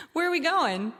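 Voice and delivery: sudden worry breaking through; alarmed. Retold or imitated. In the car with Jake, noticing the wrong way, alarmed. Realizing he drives away.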